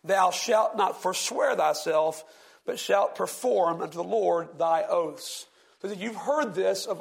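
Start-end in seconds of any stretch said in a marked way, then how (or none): 0.0-5.5 slow, solemn King James reading; scripture reading. Acted. Preacher reading scripture to the class, slow and solemn. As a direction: read the old verse slowly, with weight.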